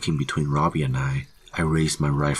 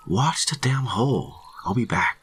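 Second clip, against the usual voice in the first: higher, urgent order; called-out order; 9 semitones higher than usual. A narrator's reading. Hunter ordering colleague to guard the hole, urgent call. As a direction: call it out to a partner as you leave.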